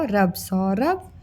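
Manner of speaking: slow, syllable by syllable; slow spelling out. Shown as a demonstration. Teacher slowly blending syllables into a word for kids. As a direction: sound out सौरभ slowly for a child. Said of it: "स में ओ की मात्रा सौ".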